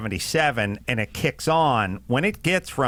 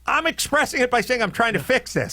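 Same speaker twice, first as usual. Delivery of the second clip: exasperated shouting; 3 semitones higher, faster than usual. Retold or imitated. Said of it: "It's like".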